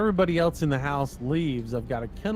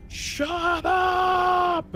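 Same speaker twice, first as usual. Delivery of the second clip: yelled shut up. Retold or imitated. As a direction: bark the order to silence the dog. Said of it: "And I just yell".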